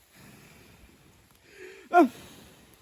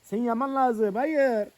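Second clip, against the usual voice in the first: pleading shout; 5 semitones higher, 8 dB louder, slower than usual. Real, not acted. Pleading with the dying fire.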